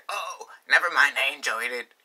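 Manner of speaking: lightly put-on friend voice; a hint of a silly voice; random quote voice. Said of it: "that's not how he sounds. It's just a random voice".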